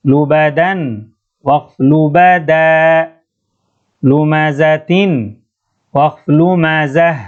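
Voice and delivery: measured tilawa reading with a bouncing stop on each pause word; teacher reciting the drill words in tilawa; Quran recitation. Shown as a demonstration. अब इसको तेलावा पढ़ेंगे.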